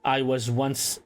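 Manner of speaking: lightly put-on French accent; game guide with a hint of French. Ratau guiding the chosen vessel to safety, light French accent. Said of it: "like, a French accent".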